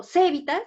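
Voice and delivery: "cevitas" stressed on the first syllable ce; misplaced stress. Shown as a demonstration. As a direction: say "cevitas" as CE-vi-tas. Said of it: "aquí está subrayada C".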